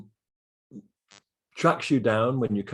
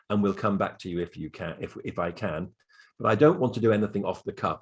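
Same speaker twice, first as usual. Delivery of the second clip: steady, measured, polite refusal; calm and polite. Shown as a demonstration. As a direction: keep it composed and courteous. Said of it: "very calmly say".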